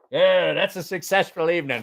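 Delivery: lightly imitated British mate; botched British accent. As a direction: declare it in a rough British accent. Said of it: "can't do a British".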